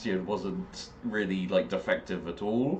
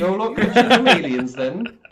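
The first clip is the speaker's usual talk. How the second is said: the West Country line, higher and louder, through laughter; laughing West Country accent; 12 semitones higher, 10 dB louder than usual. Pretend. Repeating the West Country quote.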